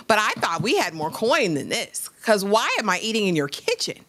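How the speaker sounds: a disdainful mother scolding her son's lover; mock Mama Gia rant. Cohost playing Mama Gia scolding her son's boyfriend, lightly mocking.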